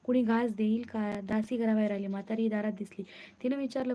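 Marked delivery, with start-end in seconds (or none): none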